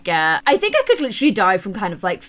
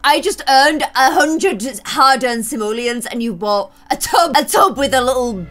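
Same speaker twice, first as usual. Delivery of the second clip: mock angry Sim; 5 dB louder than usual. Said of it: "She's probably angry 'cause she's like".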